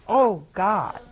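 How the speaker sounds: hushed, breathless gasp of a prayer; awed whispered cry; frightened whisper. Acted. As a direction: whisper it in sudden dread. Atheist terrified calls on God.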